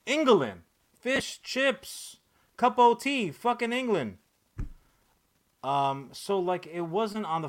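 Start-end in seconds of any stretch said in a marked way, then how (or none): 0.1-4.2 hammed-up stereotypical English accent, higher and louder; mock English. Mocking England to the podcast crowd in a put-on British accent. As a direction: lampoon England in a cartoonish British voice.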